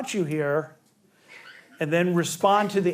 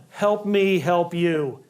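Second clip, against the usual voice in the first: slow emphatic delivery; much slower than usual. Shown as a demonstration. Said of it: "It's a great line".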